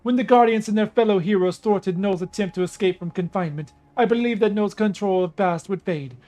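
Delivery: regal storyteller goddess; lightly voiced proud princess. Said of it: "I gotta do a Nubian female goddess voice".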